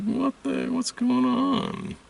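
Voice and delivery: very high, slow, strained question; incredulous retold reaction; stunned disbelief. Reacting to the boyfriend's silence in high, slow disbelief. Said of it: "It's like".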